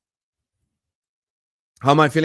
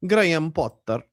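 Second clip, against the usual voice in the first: put-on Swedish accent; 2 semitones higher than usual. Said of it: "I can do a little bit Swedish accent".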